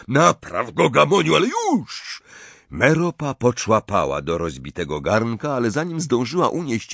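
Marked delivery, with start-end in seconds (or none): 0.1-2.2 high, loud angry yell; furious character shout; yelled order. A narrator's reading. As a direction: snap an impatient command at a bungler. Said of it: "Gaunt wrzasnął".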